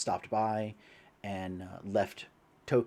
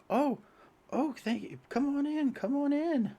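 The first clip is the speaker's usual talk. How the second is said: put-on high, thin old man voice. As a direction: greet them as a frail old priest.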